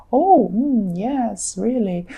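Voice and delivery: mock-attentive murmurs with swooping pitch; hammed-up polite nodding along; feigned interest. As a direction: pretend to listen, drawing out each little response. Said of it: "but you're not actually listening".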